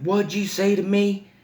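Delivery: put-on high, affronted old-lady challenge; mock indignation in a put-on high voice; outraged babysitter. Old babysitter challenges a defiant toddler, high mock outrage.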